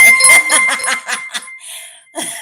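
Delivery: a big loud burst of laughter. Real, not acted. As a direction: howl with laughter at your own ringtone. Laughs at own ringtone.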